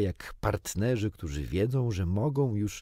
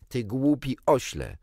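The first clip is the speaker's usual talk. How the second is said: louder, fiery insult; passionate shout; 5 semitones higher, 5 dB louder than usual. A narrator's reading. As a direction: fling the insult at him. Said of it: "krzyknęła z pasją Cynka".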